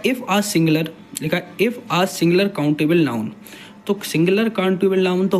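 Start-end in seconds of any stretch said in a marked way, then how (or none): 0.0-3.3 slow reading aloud. Shown as a demonstration.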